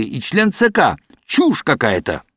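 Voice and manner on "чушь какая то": shouting. A narrator's reading. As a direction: yell the denial at him. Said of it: "снова закричал Гилёвич". (громкий крик)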